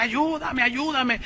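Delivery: high, softened imitation of wailing; mock crying plea. Preacher imitating a damned woman begging help, mock wail. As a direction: plead in a put-on tearful voice. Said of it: "que lloraba y gritaba".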